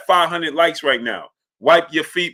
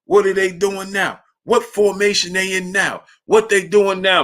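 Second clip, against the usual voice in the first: imitating uncle asking grandfather; 6 semitones higher than usual. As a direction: nag John for the play-by-play. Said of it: "my grandfather's name was John".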